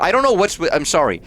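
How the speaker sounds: high, nasal-free squeaky nerd whine. Acted. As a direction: play a scrawny stuttering nerd. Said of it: "I'm doing a stupid nerd voice".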